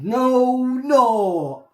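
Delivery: pushy, urgent insistence; insistent no. Acted. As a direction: press him for the truth. Bird insists.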